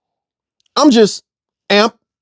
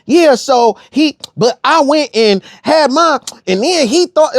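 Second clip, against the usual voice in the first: slow, higher mocking storyteller; mock caller; 5 semitones higher, slower than usual. Mocking callers who make up stories, lightly higher and slower. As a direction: ham up a rambling caller.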